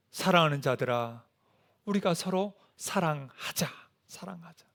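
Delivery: soft, unhurried plea, fading to a near whisper; tender appeal. Acted. God calling the beloved to love each other, tender. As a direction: gently voice a loving call, sinking away.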